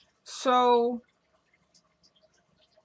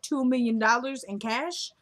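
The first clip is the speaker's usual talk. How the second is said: mock disbelief; 2 semitones higher than usual. Retold banker balks at request.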